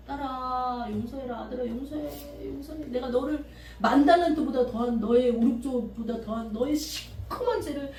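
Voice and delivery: lightly voiced tender God; gentle voice of the Spirit. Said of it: "그러더라고, 마음으로".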